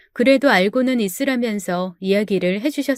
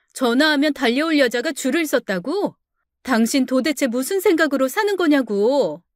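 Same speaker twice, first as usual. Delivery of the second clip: indignant wife; 3 semitones higher than usual. Acted. Wife protests her husband's insulting boast, indignant. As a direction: throw his words back at him.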